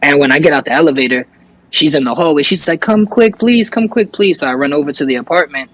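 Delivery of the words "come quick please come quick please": high-pitched urgent begging, not truly screamed; retold frantic plea. Panicked woman calls the coworker from the hallway, mock frantic plea. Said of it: "she's screaming".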